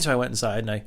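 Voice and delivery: rattling it off with little inflection; fast monotone. Real, not acted. Podcaster hurrying through a side story, fast monotone. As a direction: race through the story on one note. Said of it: "I was just talking in a monotone voice".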